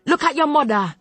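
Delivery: a Jamaican grandmother laying down the law; thick Jamaican patois. Acted. Grandmother forbidding granddaughter's therapy, thick angry Jamaican patois. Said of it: "My grandmother's accent had become so thick".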